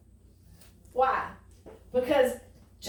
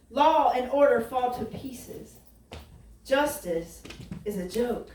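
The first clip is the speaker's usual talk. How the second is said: scripture reading. Acted. Reads Habakkuk's lament aloud.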